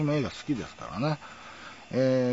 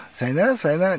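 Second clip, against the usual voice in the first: higher and louder with a rising end; two quick lilting goodbyes; light imitation; double mock sayonara; 8 semitones higher, 5 dB louder than usual. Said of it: "二回".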